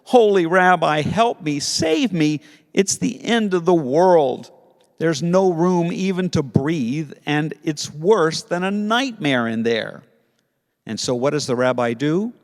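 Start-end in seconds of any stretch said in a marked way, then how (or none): 0.0-1.0 loud, high dramatic superhero plea; Batman voice. Acted. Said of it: "in his best Batman voice". 1.0-10.0 Batman voice. Acted. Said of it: "in his best Batman voice".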